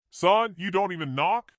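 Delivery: a father's surprised reproach. A narrator's reading. Father questions son.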